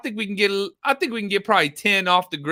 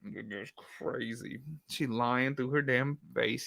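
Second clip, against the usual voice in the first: slow, quiet, low aside of a bystander; lightly voiced onlooker; 5 semitones lower, 12 dB quieter, slower than usual. Streamer voicing the EMT's thoughts, quiet slow aside. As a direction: murmur it low as the disbelieving guy. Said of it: "He's like".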